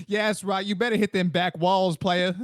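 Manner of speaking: lightly voiced street pimp; a hint of a pimp's jive talk; put-on pimp voice. Pimp egging on a customer, lightly put-on voice. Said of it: "I don't know why I made him black".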